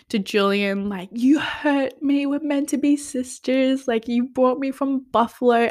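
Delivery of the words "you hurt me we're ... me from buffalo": higher-pitched, lightly whiny retelling; mock hurt pleading. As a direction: imitate a wounded sister's accusation. Voices hurt sister confronting Julian.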